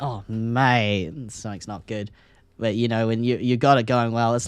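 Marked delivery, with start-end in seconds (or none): 0.0-2.1 glum Aussie mate. Shown as a demonstration. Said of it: "It's all in the expression".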